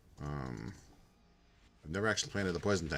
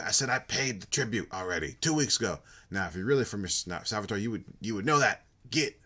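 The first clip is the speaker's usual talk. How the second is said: put-on irritated old man; 2 semitones higher, 3 dB louder than usual. Gramps keeps yelling at collector.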